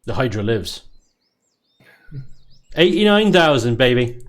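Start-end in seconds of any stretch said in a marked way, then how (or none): 2.8-4.2 excited. Real, not acted. Celebrating the Hydra build surviving.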